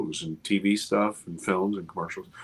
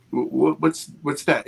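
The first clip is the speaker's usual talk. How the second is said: stammering, pitched up in surprise; startled stammer; 5 semitones higher, 4 dB louder than usual. Retold or imitated. Talking to himself at a strange sparkle, startled stammer. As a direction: catch yourself on a strange glint.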